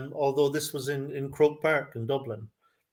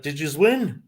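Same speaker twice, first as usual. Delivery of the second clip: imitated northern Irish drunk fan; northern Irish lilt, swooping up then down; thick northern Irish accent; 3 semitones higher than usual. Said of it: "in that thick northern accent".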